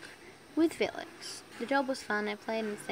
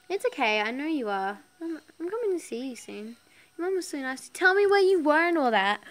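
menacing caller; 5 semitones higher, 8 dB louder than usual. A narrator's reading. Menacing caller voiced in story.

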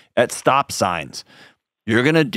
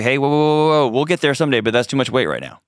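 higher-pitched "whoa", then easing down; body's cautioning voice; 4 semitones higher than usual. Acted. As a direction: gently rein someone in, starting higher. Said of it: "Your body's trying to tell you".

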